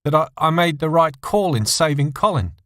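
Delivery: halting, stammering answer. A narrator's reading. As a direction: stumble over the words. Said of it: "John stammered his answer".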